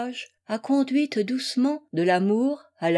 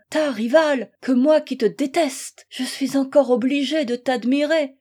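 desperate lament; 2 semitones higher, 3 dB louder than usual. Acted. Desperate wife pleads with her rival.

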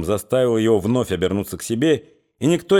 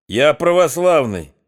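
slow, louder boastful claim; higher, louder, slow boast; proud declaration; 4 semitones higher, 4 dB louder than usual. Acted. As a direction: puff up your chest. Thug declaring himself.

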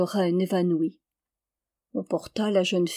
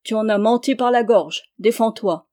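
1 mild furious challenge; 5 dB louder than usual. Acted. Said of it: "s'écria Aubry furieux".

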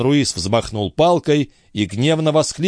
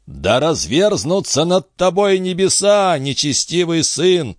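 higher, slow groaning curse; groaned curse; 7 semitones higher than usual. Acted. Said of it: "простонал Дон Руис".

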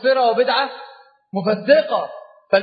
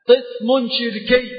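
slow emphasis; 2 semitones higher, much slower than usual. Shown as a demonstration.

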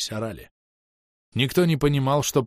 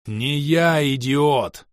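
loud, raised angry bark; barked retort; 5 semitones higher, 5 dB louder, much slower than usual. A narrator's reading. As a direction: bark it back at an attacker. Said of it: "рявкнул".

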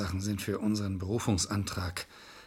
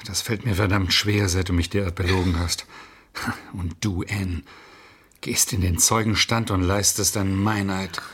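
angry reproach; 5 dB louder than usual. Acted. Lawyer confronts lying client.

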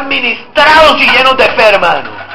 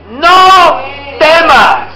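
commanding shout; much slower than usual. Acted. Preaching God's command.

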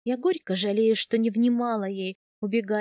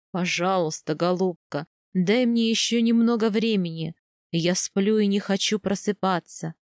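slightly lowered male role, earnest plea; lightly voiced husband, pleading; 3 semitones lower, 3 dB louder than usual. (мягкая мольба мужа)

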